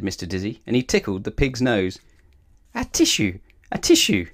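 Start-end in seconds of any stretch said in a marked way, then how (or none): 2.7-4.3 high, loud acted sneezes; sneezed. A narrator's reading. Pig with a tickled nose, sneezing loudly. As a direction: sneeze the words out explosively. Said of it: "sneezed the pig".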